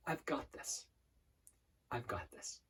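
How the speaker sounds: hushed, nearly whispered mantra; quiet affirmation. Shown as a demonstration. Coach repeating a confidence affirmation, very quiet. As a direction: murmur it to yourself, with a long pause. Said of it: "Just repeating that over and over".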